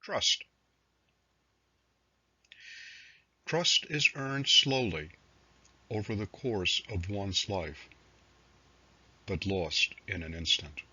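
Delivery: measured recital with pauses between phrases; poetry reading. Acted. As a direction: read it as verse, letting each line settle. Reads own poems aloud.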